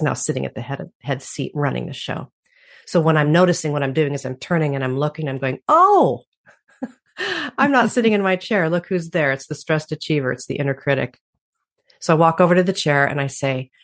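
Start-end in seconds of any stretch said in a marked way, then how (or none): 5.7-11.2 mock surprise. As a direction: catch yourself with a little laugh. Acting out noticing inner voice.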